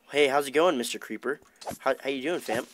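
usual speaking voice

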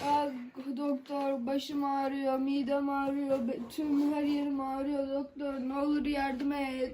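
quiet, feeble sick whimper; weak whimper. Pretend. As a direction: whimper your aches weakly. Patient complains to doctor.

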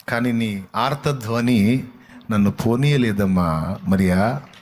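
slow, tender pleading; tender Jesus. Acted. Jesus tells Mary her cry held him, slow and tender. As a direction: draw it out gently.

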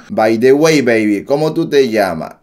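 shaky attempt at a Puerto Rican accent. Shown as a demonstration. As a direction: try out Boricua slang and lilt. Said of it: "No me está saliendo el acento boricua".

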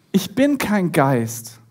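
measured, very slow acted statement; slow reassurance. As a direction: spell it out calmly to frightened friends. Jesus calms the frightened disciples.

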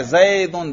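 ज़ैदुन with the final -un nunation clearly voiced; pronouncing the tanween. Shown as a demonstration. Teacher shows students tanween is spoken, brief demo. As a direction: end ज़ैदुन on a distinct -un. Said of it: "तनवीन पर तलफुज कर रहा हूं".

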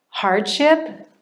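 hushed, breathy echo of the word; whispered. Real, not acted. Echoing Paul's hardship, whispered.

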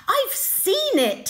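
high, loud and slow; excited elephant. Acted. Elephant telling the searchers, excited and high. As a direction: burst out with excitement. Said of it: "The elephant became very excited".

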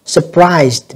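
Surprised with a voiced "duh" at the end; final D sound. Shown as a demonstration. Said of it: "âm đờ nha các bạn".

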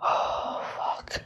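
gasping, barely voiced; breath gone, words fading; breathless whisper. Real, not acted. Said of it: "Let me catch my breath".

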